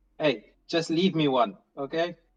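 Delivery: called out loudly. Shouting in character after the cat Hanlon as he races upstairs: shouting up the stairs. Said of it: "can I just shout at Hanlon".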